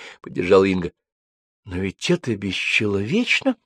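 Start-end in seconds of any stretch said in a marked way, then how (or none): 1.7-3.6 mild indignation, rising at the end; understated moral outrage; indignant. A narrator's reading. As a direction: protest it with a rising, shocked tone. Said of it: "возмутилась Римма".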